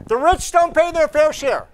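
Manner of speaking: high, loud sarcastic parody of a stump line; lightly voiced mock Biden; mocking Biden slogan. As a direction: parrot the slogan with a mocking lilt. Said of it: "Every single speech Biden gives".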